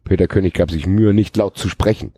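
even read-aloud delivery; story narration. A narrator's reading. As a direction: narrate the action like an audiobook. Reads a novel aloud.

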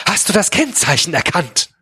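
urgent, high-pitched question; excited, voice jumping up; agitated. A narrator's reading. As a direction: ask it in acted agitation. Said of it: "Defke klang aufgeregt".

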